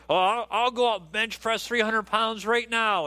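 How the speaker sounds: mock braggart, pitched slightly up; bragging. Movie guy boasting to his coworker, bragging. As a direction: boast it like a movie tough talker. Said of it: "is bragging".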